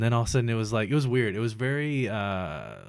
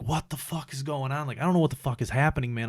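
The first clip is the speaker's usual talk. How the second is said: higher-pitched, mildly panicked retelling; retold freak-out; 4 semitones higher than usual. Patient having glass pulled from face, retold freak-out. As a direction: replay your bewildered alarm, pitch lifted. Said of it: "I'm, like, freaking out".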